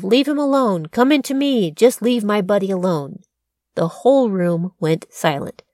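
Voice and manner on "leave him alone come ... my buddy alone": retold shout, pitch jumps then settles; mock shout. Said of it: "He shouted something along the lines of".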